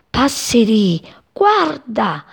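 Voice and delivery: high, urgent calling out; little bird crying out in alarm; excited cry. A narrator's reading. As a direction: call a friend to look, pitch climbing. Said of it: "gridò Cipì".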